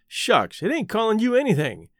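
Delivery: plain reading voice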